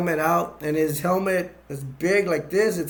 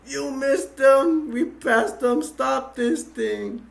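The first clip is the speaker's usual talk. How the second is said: mock frantic order; 9 semitones higher, 3 dB louder, much slower than usual. Dark Helmet upset at speed.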